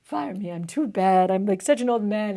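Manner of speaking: high, slow, self-pitying whine; pitiful humble servant. Retold or imitated. Tutor acting Nawab groveling to be fired, high pitiful whine. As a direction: whimper like a hopeless old man begging. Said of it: "trying to be super humble and be like".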